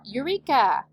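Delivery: a moderate shout of discovery. A narrator's reading. Doctor Dinglebat demonstrates his cry for the winner, shouting. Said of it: "I will shout".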